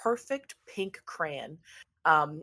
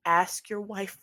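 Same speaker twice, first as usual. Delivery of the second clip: drawn-out, earnest plea; lightly voiced pleading pizza maker. Pizza maker begs Ernest to call off attacks, pleading. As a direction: beg a favor, stretching out the please.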